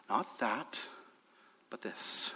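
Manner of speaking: low, very soft delivery; hushed contrast. Real, not acted. Preacher quietly sums up Paul's message, hushed. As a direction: set it out quietly, almost under the breath. Quiet first take before loud repeat.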